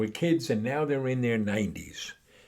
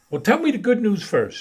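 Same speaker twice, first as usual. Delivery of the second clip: put-on old man voice; 11 semitones higher, 7 dB louder than usual. Mo asks.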